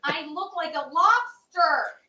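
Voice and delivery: high, drawn-out whine; whiny complaint. Real, not acted. Woman fretting over her lighting on camera, whiny complaint.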